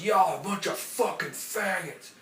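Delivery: slurred mock slur at the workers; drunk neighbor yelling. Neighbor yelling at construction workers, mock drunk shout. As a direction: imitate the hammered guy below. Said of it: "he goes".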